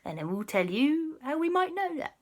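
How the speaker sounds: put-on loud, hearty pirate accent. Kwasi greeting the mermaid guard in a loud pirate accent. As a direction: ham up a jolly pirate. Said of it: "Kwasi said".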